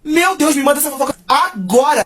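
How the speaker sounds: thrilled to hear the gossip; excited. Retold or imitated. Vlogger begging the girl for her gossip, excited.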